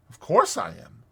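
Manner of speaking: loyal. A narrator's reading. Mole backing his friend Rat, loyal. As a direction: agree at once, staunchly. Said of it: "said the Mole loyally".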